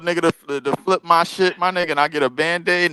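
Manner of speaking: can't believe it; incredulous. Real, not acted. Incredulous about hair transplant.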